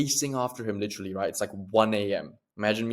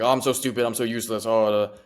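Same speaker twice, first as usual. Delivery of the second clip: mock self-pity running into a wordless moan; demonstrated victim-like self-reproach; beating yourself up. Shown as a demonstration. Showing a negative spiral to listeners, self-demeaning. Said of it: "that is beating yourself up".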